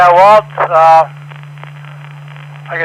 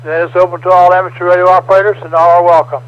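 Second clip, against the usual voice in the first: formal scripted net opening; radio net announcer; 4 dB quieter than usual. Acted. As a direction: read the net preamble steadily. Reads net control preamble.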